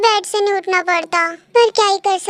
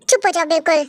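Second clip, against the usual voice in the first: low, firm order to hush; stern shushing; 6 semitones lower than usual. Acted. Girl cutting off her boyfriend, stern shushing. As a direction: cut off the protest in a lowered voice.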